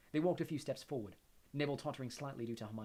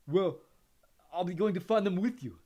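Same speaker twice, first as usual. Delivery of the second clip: put-on resolute, louder young voice; firm; 7 semitones higher, 11 dB louder than usual. A narrator's reading. Neville tells Harry firmly he's coming too. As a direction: insist you're coming along. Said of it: "said Neville firmly".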